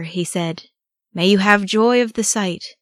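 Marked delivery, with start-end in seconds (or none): 1.1-2.8 raised, loud croak. A narrator's reading. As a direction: croak it out high and forced. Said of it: "Gimli croaked".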